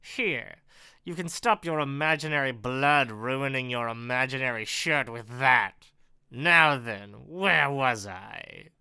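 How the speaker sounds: lightly voiced sarcastic villain; villain Ken. Villain tosses handkerchief to bleeding writer, lightly sarcastic. Reads villain Ken's dialogue.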